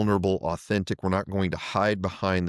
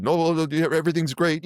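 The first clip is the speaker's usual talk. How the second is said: higher, hurried flustered deflection; flustered brush-off; 10 semitones higher, 3 dB louder than usual. Retold or imitated. Chief to officers asking how he is, flustered. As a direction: wave off the question, caught off guard. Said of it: "get flustered".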